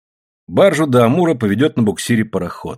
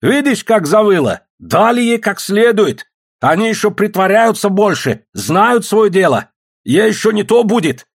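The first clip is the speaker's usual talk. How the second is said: higher, louder, slow gloating jeer; cruel policeman; 11 semitones higher, 4 dB louder than usual. A narrator's reading. Policeman Ibalka to the crowd about the women, slow gloating. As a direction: relish the cruelty. Policeman jeers at wailing woman.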